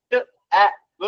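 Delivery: "ট", "আ", "ব" one short sound at a time. Shown as a demonstration. Teacher decoding tab for parents, sounding out "ট, আ, ব". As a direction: separate the phonics sounds "ট, আ, ব". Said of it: "যদি সে sound করে পড়ে".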